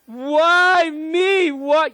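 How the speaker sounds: high, slow, drawn-out wail of why me, face turned upward; hammed-up self-pity crying out to heaven; a put-on pitiful plea, stretched out high; mock anguished lament. Shown as a demonstration. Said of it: "You'll never see a person go like this".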